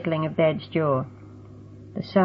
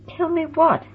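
surprised; 11 semitones higher than usual. A narrator's reading. Roxy baffled by the hint.

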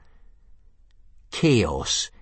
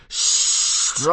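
scream. A narrator's reading. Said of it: "screamed Gobber the Belch".

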